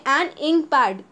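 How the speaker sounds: a slow, deliberate an ink pad; slow model reading. Shown as a demonstration. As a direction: read an ink pad slowly for the class. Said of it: "teacher modelling examples".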